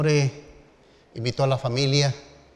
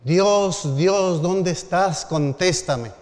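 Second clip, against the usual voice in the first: calling out to God, raised and loud; mock anguished shout to heaven; retold shout; 5 semitones higher, 4 dB louder, much slower than usual. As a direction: cry out desperately to the sky. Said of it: "empezó a gritar".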